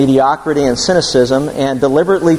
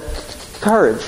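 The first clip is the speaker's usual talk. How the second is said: stammered lion impression; 4 semitones higher, 5 dB quieter, slower than usual. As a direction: stutter the first sound, then land COURAGE higher. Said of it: "as the line said".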